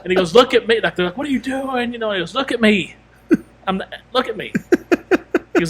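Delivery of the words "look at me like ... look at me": high, pleading mock protest; retold protest. Retelling a battered man's defense to onlookers, high mock protest. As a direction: imitate an indignant plea, pitched up.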